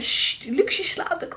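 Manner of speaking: put-on hushed whisper to keep the child asleep; shushing whisper. Midwife hushing her so the sleeping girl won't wake, whispered. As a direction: whisper sharply, sst.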